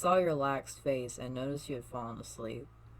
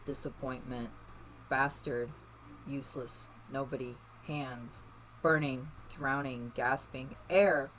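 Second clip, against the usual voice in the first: grab the word like drowning; desperate gasp for air. Acted. Gasping for air in panic.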